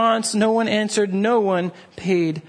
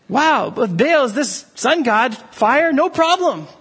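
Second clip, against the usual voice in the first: eager crowd; 3 semitones higher than usual. Retold or imitated. People imagined agreeing eagerly.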